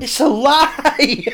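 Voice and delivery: excited realisation. Retold or imitated. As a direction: draw it out with delighted discovery. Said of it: "he suddenly gets it".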